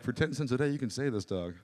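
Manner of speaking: mildly imitated sad-advert plea; understated mock charity spokeswoman; celebrity charity appeal. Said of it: "And she's like".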